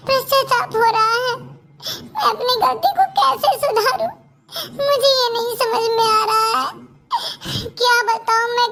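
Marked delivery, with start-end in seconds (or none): 1.4-6.7 slow, crying through the words, pleading; tearful apology. Acted. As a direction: let the tears break into the apology. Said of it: "अब रोना बंद करिए". (रोते हुए माफी माँगना)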